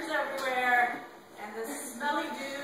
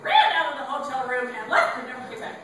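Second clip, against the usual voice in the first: excited narration; 4 semitones higher, 13 dB louder than usual. A narrator's reading. Climax after ghost.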